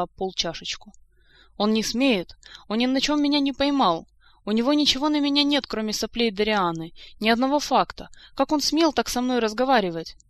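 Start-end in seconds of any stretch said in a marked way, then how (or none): 1.6-10.2 high, loud indignant tirade; acted fury, pitched well up; furious outrage. A narrator's reading. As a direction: rage at the insult, line after line. Countess rages after throwing a cup.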